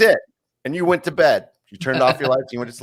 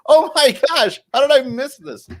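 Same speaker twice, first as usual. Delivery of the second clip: very high, louder mock astonishment; astonished squeal; 14 semitones higher, 4 dB louder than usual. Viewer sees Michael on screen, astonished squeal. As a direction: squeal in hammed-up shock. Retells bigger reaction seeing Michael.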